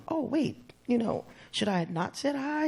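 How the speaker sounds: puzzled acted self-doubt; taken aback. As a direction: play a puzzled, wait-what reaction. Acting a snubbed greeter's reaction.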